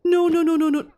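high, loud pleading denial. Real, not acted. Player watching her sim die, loud and high. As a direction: cry out no over and over.

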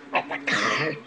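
suddenly very low, put-on voice; mock deep voice. Showing the card after squealing, mock deep voice. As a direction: drop right down low and draw out the last word.

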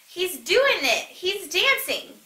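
high, slow cheer of delight; a crowd of animals celebrating Jim dancing, cheering slowly. A narrator's reading. Animals cheering as Jim finally dances, high and slow. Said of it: "everyone cheered".

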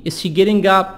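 "getting" with tapped T; soft-D T. Shown as a demonstration. Teacher drilling a question, "getting" with soft D. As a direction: soften the middle of getting to a D. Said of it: "T soft D".

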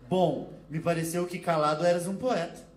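slow, laughing Portuguese retort; Portuguese accent, slow and laughing; mock Portuguese accent. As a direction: drawl the jab in a put-on Portuguese accent. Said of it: "comentou já brigando".

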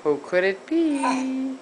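drawn-out, playful question; mock wondering. Asking who stinks in here, mock wondering. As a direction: stretch it out high in pretend puzzlement.

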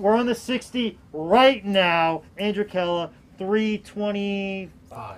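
slow, drawn-out auction call; auctioneer voice. Pretend. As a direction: call the bids like a small-town auctioneer. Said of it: "My auctioneer voice is so awful".

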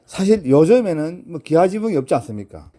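ordinary talk, nothing marked

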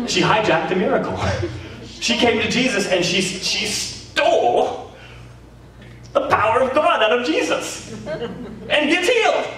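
high, laughing through the words; can barely get it out for laughing. Real, not acted. Preacher cracking up while telling the congregation.

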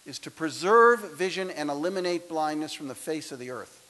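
booming, grandiose mission statement; grand proclamation. Acted. Speaker to graduates, a booming mock-grand mission statement. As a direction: proclaim it like a lofty oath.

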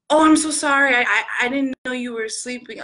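acted rush of apology to a woken friend; retold flustered sorry; apologetic. Voices friend apologizing for waking her.

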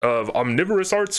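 a touch of movie announcer. Pretend. Host finishing the show's title, mock announcer. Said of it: "do I sound like a movie announcer?".

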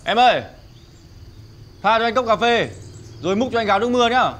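loud, high call across the shop; calling to order. Acted. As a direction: call the waitress over from afar. Customer calls to the girl.

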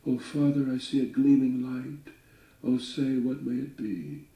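lightly voiced anxious daughter; frightened little daughter. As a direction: lift up into a scared girl calling to her father. Daughter pleads with father.

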